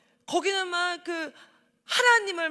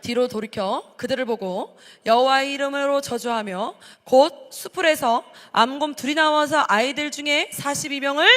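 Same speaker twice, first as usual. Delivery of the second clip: loud reading together; 2 semitones lower, 6 dB louder than usual. Real, not acted. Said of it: "큰 소리 읽어볼까요".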